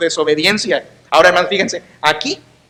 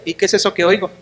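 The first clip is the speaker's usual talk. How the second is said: softer, dry sarcastic question; a quiet jab at the king; dry sarcasm; 4 dB quieter, faster than usual. Retold or imitated. Prophet Samuel quietly questioning Saul, dry sarcasm. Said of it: "Notas el sarcasmo".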